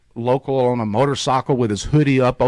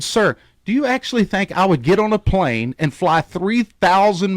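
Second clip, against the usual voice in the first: heated; 4 semitones higher than usual. Retold or imitated. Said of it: "I get redneck".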